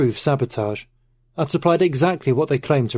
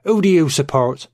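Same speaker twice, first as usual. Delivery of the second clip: demanding; 4 semitones higher, 5 dB louder than usual. Acted. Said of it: "he demanded".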